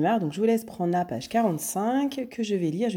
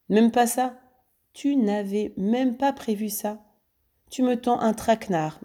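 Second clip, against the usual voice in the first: higher, slow sneer; gloating mockery; 5 semitones higher than usual. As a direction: savour his blunder. Lupin ricane de Ganimard. (raillerie lente et aiguë)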